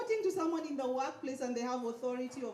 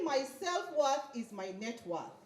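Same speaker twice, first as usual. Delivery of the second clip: slow, stressed affirmation for the crowd; slow call to repeat. Shown as a demonstration. Speaker leads audience in repeating the affirmation, slow. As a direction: lead the crowd, stressing self-worth.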